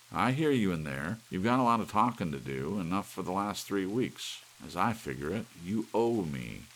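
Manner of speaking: loud, high accusing yell; husband shouting at the cuckoo; furious demand. A narrator's reading. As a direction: hammer out the debt. Larry confronting the clock.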